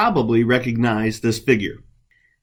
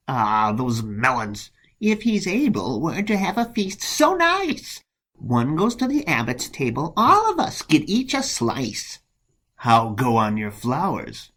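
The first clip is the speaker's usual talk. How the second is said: jealous monk, mock delight; 2 semitones higher than usual. Monk talks of the melon feast to rival, mock delight. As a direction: feign delight, pitch leaping up.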